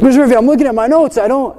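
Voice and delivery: high, hurried student protest. Retold or imitated. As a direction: plead lightly as a flustered pupil. Student protests to irritated teacher.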